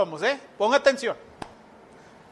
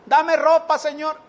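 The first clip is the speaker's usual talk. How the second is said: insistent begging prayer, slightly raised pitch; mock pleading; 2 semitones higher than usual. Preacher imitates a believer begging God for things, pleading. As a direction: rattle off requests like a needy supplicant. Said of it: "Ahí está usted rogando".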